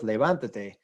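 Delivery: levantate stressed on "van"; stress on third-last syllable. Shown as a demonstration. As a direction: put the weight on "van" in levantate. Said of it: "when we break that rule".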